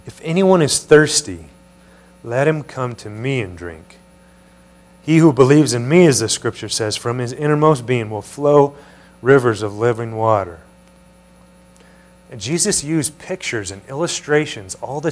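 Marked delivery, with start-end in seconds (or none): 0.1-10.6 raised voice on the opening phrases; crying out. Acted. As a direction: proclaim it to a crowd, emphatic reading. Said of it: "Jesus stood and cried out".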